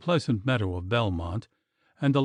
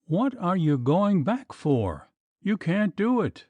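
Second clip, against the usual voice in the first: panicked protest; 7 semitones higher than usual. A narrator's reading.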